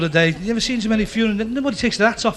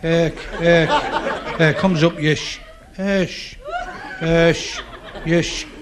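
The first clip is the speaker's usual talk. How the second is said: imitating a stutter; much slower than usual. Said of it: "he stuttered very badly".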